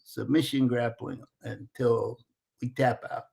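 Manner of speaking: slow, imitated Brazilian accent. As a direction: lay out the rules slowly in a put-on Brazilian accent. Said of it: "says a really thick Brazilian accent".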